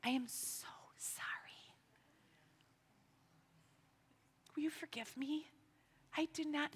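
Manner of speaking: put-on a mother saying sorry to her children in a broken whisper; tearful whispered apology. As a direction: whisper it close, through tears.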